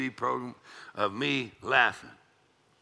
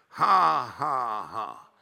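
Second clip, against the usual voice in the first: imitated laughing; much slower than usual. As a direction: act a deliberate laugh that drops away. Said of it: "I started doing that".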